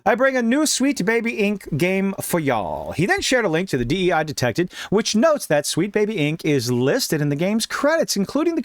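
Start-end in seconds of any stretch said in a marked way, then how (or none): 0.1-2.9 attempted Brazilian accent. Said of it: "me with a Brazilian accent".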